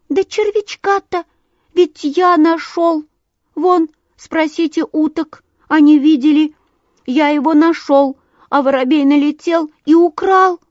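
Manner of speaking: high, loud, indignant piping; small bird's high-pitched complaint; thin little bird voice. A narrator's reading. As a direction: plead your case as a wronged little sandpiper. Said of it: "тоненький голосок".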